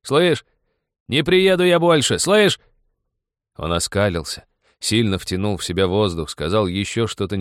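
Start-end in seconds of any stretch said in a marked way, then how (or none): 0.0-2.6 high, loud shout from the train step. A narrator's reading. Young man shouts to the girl from the moving train, loud. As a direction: fling it at her from the train step. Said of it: "негромко крикнул".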